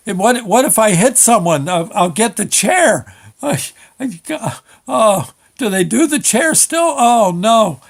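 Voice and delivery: high-pitched escalating dread; mock panic. Driver with invalid license imagines the electric chair, mock panic. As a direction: spiral into comic dread, peaking on a loud wail.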